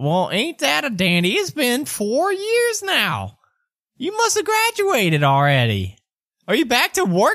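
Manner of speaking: put-on very high, sing-song, swooping old gnome voice. Voicing a mustached gnome greeting an old employee: gnome character voice. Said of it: "He says".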